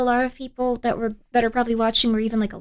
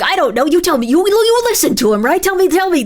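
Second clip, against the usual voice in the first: imitating annoyed host; 5 semitones higher, 7 dB louder than usual. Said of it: "And he's like".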